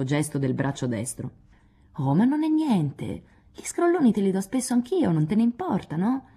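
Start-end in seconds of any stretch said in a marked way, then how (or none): 2.0-6.2 gently teasing and caressing; coaxing. Acted. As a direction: soothe him like a sulky child. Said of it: "disse Jo carezzevole".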